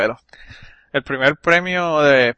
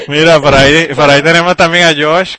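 loud, raised introduction; calling out; 3 semitones higher, 10 dB louder than usual. Real, not acted. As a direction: announce it loudly over the laughter. Calls over laughter to introduce Josh. (presentación en voz bien alta)

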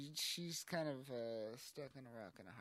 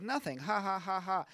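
mock fake laugh; 7 semitones higher, 11 dB louder than usual. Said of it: "she's just like".

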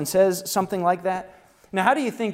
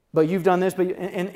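louder, blame-shifting "but you've done this"; louder mock deflection; mock deflecting; 3 semitones higher, 6 dB louder than usual. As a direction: imitate someone deflecting blame. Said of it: "they wanna deflect".

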